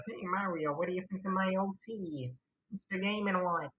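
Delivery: high, cartoony Luigi voice; Luigi impression. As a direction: squeak it out like a proud Luigi. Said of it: "even I can do better Mario impressions".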